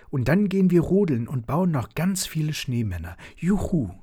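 put-on child planning sledding with glee; excited child. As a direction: babble on like a thrilled kid. Child delighted at snow day.

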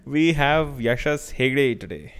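slow announcer read; like a radio host introducing. Acted. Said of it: "I don't know why I'm doing this radio voice".

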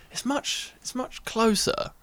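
tense whisper, a little slow; whispered thought. Retold or imitated. Lying in the tent thinking the screamer is close, whispered. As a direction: hush it like someone is just outside. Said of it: "I'm thinking".

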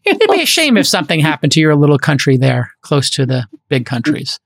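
a light mobster-style veiled threat; smiling menacing loan shark. Pretend. Mock threat to small country.

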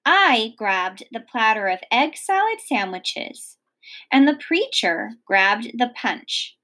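lively read-aloud narration; expressive storybook reading; story narration. A narrator's reading. Reads chapter aloud.

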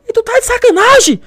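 very high, loud mock outrage; hammed-up screamed challenge; imitated angry shout. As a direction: yell it like an instructor piling on pressure.

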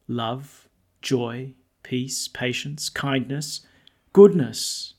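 measured formal reading aloud; scripture reading. Acted. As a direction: read it as scripture at Mass. Liturgical reading of epistle.

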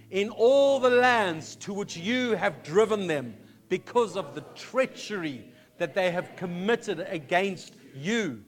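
slow, solemn scripture reading aloud; solemn prayer read slowly, each phrase weighted. Acted. Congregation reads Daniel's prayer aloud.

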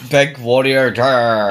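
growled Warrior war cry; battle cry. Retold or imitated. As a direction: roar it like the Warrior. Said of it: "the Warrior impression".

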